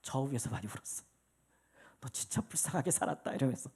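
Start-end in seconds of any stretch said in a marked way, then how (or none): 2.0-3.3 tender self-pity. Retold or imitated. Comforting himself, quoted.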